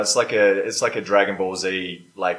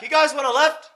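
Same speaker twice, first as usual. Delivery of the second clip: dragon voice; 3 dB louder than usual. Acted. Player voicing dragon character.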